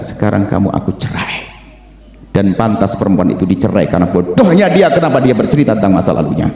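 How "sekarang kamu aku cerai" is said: subdued pronouncement. Acted. Husband divorces wife after her confession.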